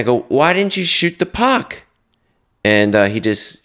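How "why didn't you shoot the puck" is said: high, raised demand to the player; coach demanding. Retold or imitated. Coach confronting player at bench.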